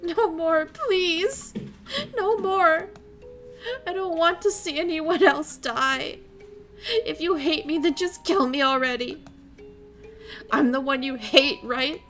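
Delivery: high, loud desperate begging; frantic captive begging her sister to kill her; hysterical pleading. Acted. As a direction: beg for it to end, near breaking. Shion pleads, panicked.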